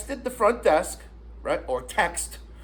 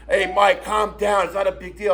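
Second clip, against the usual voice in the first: even-pitched calming-down imitation; retold placating. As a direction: play down the fuss, evenly. Retold: Sue tries calming him down.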